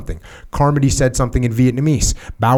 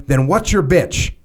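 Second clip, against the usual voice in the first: slow sneering challenge; 4 semitones higher, slower than usual. Acted. Major challenges the narrator.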